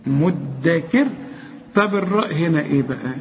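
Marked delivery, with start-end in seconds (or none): 0.1-1.1 slow مدكر, each syllable distinct; heavy final ra. Shown as a demonstration. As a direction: draw out مدكر down to its last ر. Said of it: "افخمها".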